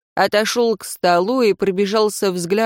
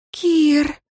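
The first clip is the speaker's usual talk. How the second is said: moaned name; 9 semitones higher than usual. A narrator's reading. Leira crying her lover's name, high moan. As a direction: cry his name at the peak. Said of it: "громким стоном вырвалось его имя".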